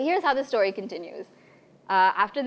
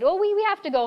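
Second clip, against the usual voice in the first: panicked; 9 semitones higher, 3 dB louder, much faster than usual. Retold or imitated. Panicked exit from the church.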